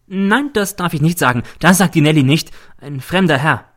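lightly voiced woman, guarded and insistent; Nelly refusing. Nelly refuses to name the man. (bestimmt abwehrend)

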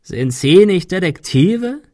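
slow, high, loud sneering question; croaking. A narrator's reading. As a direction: croak it out, drawn out and climbing. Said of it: "krächzte er".

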